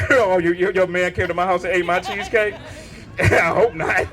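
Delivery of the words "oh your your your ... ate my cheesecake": lower, lightly voiced sassy wife; a hint of the wife teasing back; mock wife voice. Wife mocking husband about missing cheesecake, lightly voiced. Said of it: "My wife".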